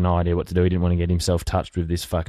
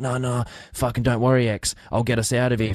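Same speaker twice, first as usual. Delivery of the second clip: higher, breezy mock reassurance from a drunk mate; cocky drunk mate; 5 semitones higher than usual. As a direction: toss it off like a wasted mate sure of himself.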